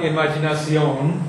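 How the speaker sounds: "imaginación" with a Spanish accent on -ción; Spanish pronunciation. Shown as a demonstration. Teacher contrasting English with Spanish, says "imaginación" the Spanish way. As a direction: say "imaginación" the Spanish way, four even syllables stressed on the last. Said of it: "because it's not Spanish".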